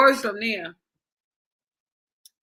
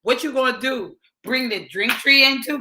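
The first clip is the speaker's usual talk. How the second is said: sarcastic; 4 semitones higher than usual. Retold or imitated. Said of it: "sarcastically, like".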